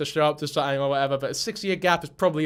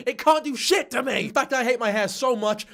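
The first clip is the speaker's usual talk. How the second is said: mock defiance; 6 semitones higher than usual. Streamer mocking her haters speech, hammed-up defiance. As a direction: ham up the defiant victim.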